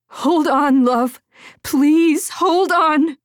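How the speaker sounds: high, urgent pleading; desperate, tender encouragement; urgent plea. A narrator's reading. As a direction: beg a child to hold on. Mother pleads with child while fleeing.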